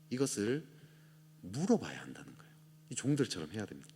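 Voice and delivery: ordinary talk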